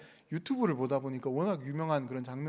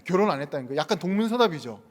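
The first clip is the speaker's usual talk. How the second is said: ordinary talk, nothing marked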